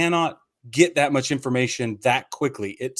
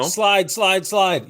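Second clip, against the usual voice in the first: urging a runner; 5 semitones higher, 4 dB louder, much slower than usual. Retold or imitated.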